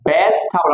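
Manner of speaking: ভেজিটেবল as "bes-thabol"; corrected pronunciation. Shown as a demonstration. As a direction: say ভেজিটেবল with no "ji", strong breathed th. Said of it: "এটা কি হবে?".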